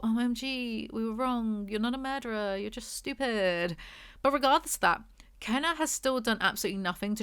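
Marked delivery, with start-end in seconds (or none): 0.0-3.8 lightly voiced, slowing mock epiphany; mock parents' reaction. Reviewer mocking the parents' turnaround, mildly voiced. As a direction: parody the parents' sudden change of heart. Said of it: "they're gonna be all".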